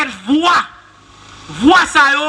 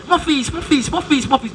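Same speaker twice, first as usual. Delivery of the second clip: mon fils repeated softer and softer like an echo; fading echo; 3 dB quieter than usual. Retold or imitated. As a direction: let each mon fils die away like an echo. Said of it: "il fait écho". (écho qui s'éteint, mon fils de plus en plus doux)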